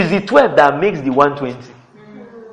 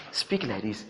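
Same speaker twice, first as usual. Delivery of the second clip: very soft, low quoted voice; hushed divine prompting; 6 semitones lower, 16 dB quieter than usual. Retold or imitated. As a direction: retell an inner prompting, softly and low. Retold voice of Holy Spirit.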